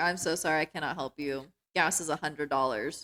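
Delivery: mocking deadpan delivery. Mocking someone with no acting skill by imitating his line in a monotone. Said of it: "talking with a very monotone voice".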